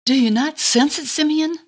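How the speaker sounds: hushed wonder, slowing down; awed old woman. Acted. Anna tells Simeon the One draws close, in slow awe. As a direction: savor each word like a revelation.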